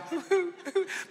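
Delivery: a brief strained high sob-laugh; half-laughing imitation of an ugly cry; mock ugly cry. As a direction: squeeze out a comic ugly-cry noise. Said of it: "You know when there's a cry".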